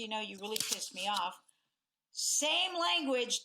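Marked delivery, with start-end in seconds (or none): 0.2-1.4 calm tone. Shown as a demonstration. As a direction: say it calmly, no bite. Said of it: "in that tone as compared to".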